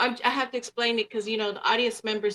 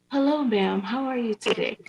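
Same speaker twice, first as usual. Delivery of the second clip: polite proper voice. Shown as a demonstration. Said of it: "I can mask and talk like".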